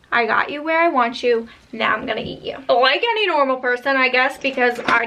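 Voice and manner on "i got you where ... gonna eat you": quieter, lightly menacing boogeyman; scary voice, softer. Retold or imitated. Boogeyman repeating threat to kids, quieter and menacing. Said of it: "like, a scary voice saying".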